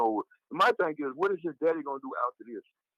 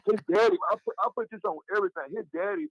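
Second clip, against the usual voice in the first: laughing; 8 semitones higher than usual. Real, not acted. Laughing while telling the story.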